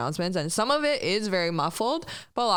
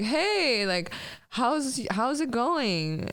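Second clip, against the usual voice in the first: imitating a doctor's drawn-out, higher-pitched chitchat; slow, casual greeting, pitched up; imitated small talk; 5 semitones higher, much slower than usual. Doctor greeting a patient during an awkward exam, imitated small talk. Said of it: "Making small talk".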